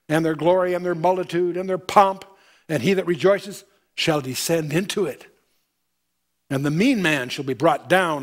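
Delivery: measured, solemn Bible reading; solemn pulpit reading; scripture reading. Acted. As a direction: read it like holy writ to the congregation. Reads scripture aloud.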